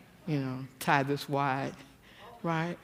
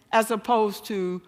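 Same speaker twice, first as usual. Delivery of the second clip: normal talking voice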